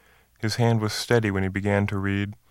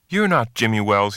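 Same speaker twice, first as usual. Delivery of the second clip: sharp, louder accusation; snapped accusation; 4 dB louder than usual. Acted. Bob confronting the impostor, snapping. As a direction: bite it out in sudden suspicion. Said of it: "he snapped".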